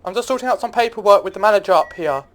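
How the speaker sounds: calling out loud to someone downstairs; yelling across the room. Acted. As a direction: raise your voice across the room. Calling down from upstairs to sir.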